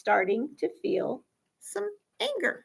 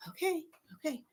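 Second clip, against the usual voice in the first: teacher; 4 semitones higher, 13 dB quieter, faster than usual. Pretend. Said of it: "it's teacher".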